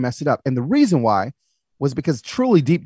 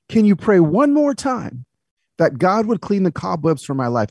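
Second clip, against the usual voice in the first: put-on tearful old lady; 5 semitones higher than usual. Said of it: "She's still crying".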